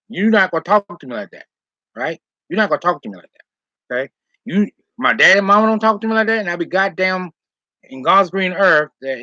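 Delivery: retold telling-off. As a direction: lay into him, voice climbing. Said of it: "I went off on him".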